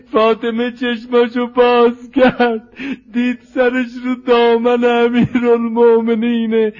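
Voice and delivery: plaintive, drawn-out rawzeh delivery; mourning recitation. Acted. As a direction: recite it as a pleading lament for the mourners. Recites tragic mourning narrative.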